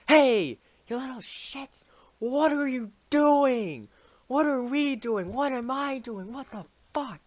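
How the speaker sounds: high, loud mock orator rousing the crowd; a squeaky mock rabble-rouser; high mock rallying cry; rallying speech. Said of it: "he had this great voice".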